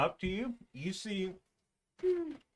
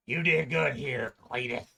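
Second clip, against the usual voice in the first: put-on southern accent; 5 dB louder than usual. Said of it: "now he has, like, a southern accent".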